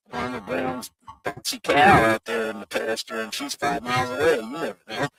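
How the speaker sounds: glitchy robotic audio. Real, not acted. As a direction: sounds like a robot over a bad connection. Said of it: "hearing the speaker sounding like a robot".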